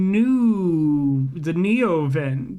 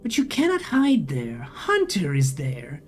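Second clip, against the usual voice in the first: slow, whirring robotic drone; whining machine voice; slower than usual. A narrator's reading. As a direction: speak like a glitching vending machine.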